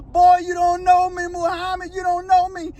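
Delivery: put-on high-pitched jeer; mock menacing taunt. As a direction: carry the cackle's menace into the words. Acts out inmate taunting after sinister laugh.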